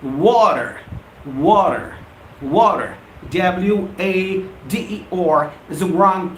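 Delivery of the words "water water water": "water" three times with a full r ending, low and firm; repeated model word. Shown as a demonstration. Teacher drilling viewers on the right pronunciation. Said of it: "it's water".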